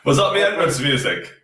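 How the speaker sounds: thin, tinny mic sound; like through a cheap mic. Real, not acted. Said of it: "You sound tinny".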